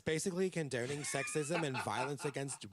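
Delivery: a hint of whiny Meg; lightly mocking preachy voice; Meg cadence. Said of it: "you kinda had a Meg cadence".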